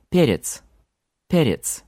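перец with e as in tent; перец: open e as in tent. Shown as a demonstration. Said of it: "can also sound like English er".

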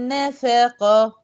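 نفقة very slow, n and f kept light, q heavy. Shown as a demonstration. Teacher models نفقة for the class, very slow, light n and f. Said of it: "برضو أرقق النون والف".

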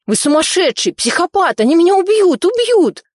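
hysterical wailing. A narrator's reading. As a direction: climb into a terrified howl. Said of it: "заголосил Беспалов".

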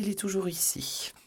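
hushed secret whisper; whispered aside. Acted. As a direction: breathe it out under your breath.

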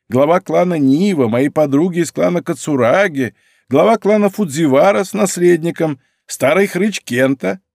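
voiced old woman. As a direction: list them off like a tired grande dame.

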